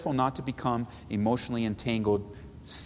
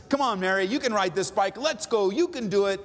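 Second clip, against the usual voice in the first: higher, upbeat coaxing; cheering exhorter; 6 semitones higher than usual. Shown as a demonstration. Pastor voicing an exhorter cheering Mary, upbeat. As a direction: cheer her on, come on you can. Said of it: "you might sound like this".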